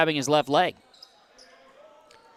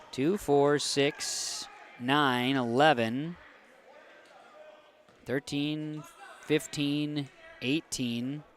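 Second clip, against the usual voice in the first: soft, low counting with gaps; tally under your breath; counting to oneself; 3 semitones lower, 9 dB quieter, much slower than usual. Real, not acted. Counting figures to himself off-play.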